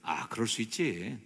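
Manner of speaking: easygoing, settled reassurance; understanding acceptance. Shown as a demonstration. Preacher models the understanding reply for congregation, mild acceptance. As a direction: let it go kindly. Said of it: "이렇게 하지 마시고".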